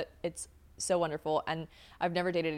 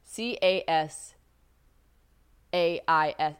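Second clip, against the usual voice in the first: letter by letter with pauses; spelling out; 3 dB louder, slower than usual. Shown as a demonstration. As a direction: spell it out haltingly, one letter at a time. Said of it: "It's spelled, like".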